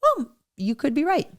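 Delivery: soft, gentle concession offered honestly; mean it, softly; sincere. Shown as a demonstration. Husband showing how to say it to a spouse, sincerely. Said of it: "not saying it like".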